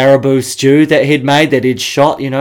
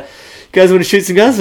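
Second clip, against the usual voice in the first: local bro; 6 semitones higher than usual. Retold or imitated. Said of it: "kinda just like this local, local bro".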